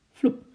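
short, loud leap noise; imitated whoosh. A narrator's reading. Narrator voices the ape jumping off the wall, loud whoosh. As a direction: pop it out like a sudden jump.

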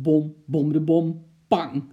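punchy bom-bom ending in a bang; imitated thumps and bang. A narrator's reading. Storyteller imitating what the man hears, thumping and banging. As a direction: thump out the noises with your voice. Narrator imitates noises from attic.

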